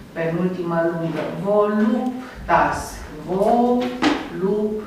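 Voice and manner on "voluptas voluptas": Voluptas drawn out very slowly, stress on the second syllable; stress demo. Shown as a demonstration. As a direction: spell out the stressed penultimate. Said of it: "să vă dau un exemplu". (rostit foarte rar, cu accent pe penultima)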